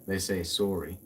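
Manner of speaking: "sorry" as Canadians say it, "sore-ee". Shown as a demonstration. Demonstrating how Canadians talk, "sorry" with a Canadian o. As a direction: round the o in "sorry", Canadian style. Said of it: "the Canadian way of saying sorry".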